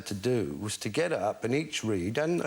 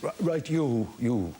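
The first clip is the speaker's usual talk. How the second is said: lightly voiced teacher; 3 semitones higher, 3 dB louder, slower than usual. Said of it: "He says".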